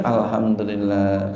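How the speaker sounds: calm content thanks; grateful. Shown as a demonstration. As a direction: say it slowly, gently grateful. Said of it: "Jadi kalau hujan".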